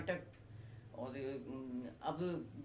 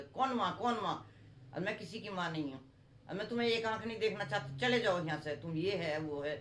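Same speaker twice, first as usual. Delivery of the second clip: put-on a stepmother shooing the children off; lightly acted angry stepmother; cruel stepmother. Stepmother rejects the boys.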